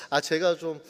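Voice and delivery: sheepish, hesitant excuse with a chuckle; awkward excuse. Acted. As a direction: wriggle politely out of being called in. Acting out an awkward work excuse. (머쓱하게 웃으며 둘러대는 말투)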